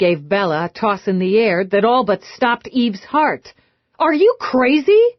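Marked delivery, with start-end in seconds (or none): 4.0-5.1 alarmed. Acted. Eve alarmed at the toss.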